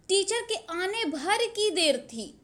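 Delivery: slow, leaning on भर; stress on भर. Shown as a demonstration. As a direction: drag out भर की देर. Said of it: "शब्दों पे जोर दिया जा रहा है".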